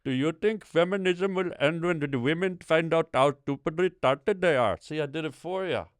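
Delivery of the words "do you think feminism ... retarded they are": exaggerated Indian accent, high and loud; hammed-up Indian accent. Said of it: "You're much better at it than me".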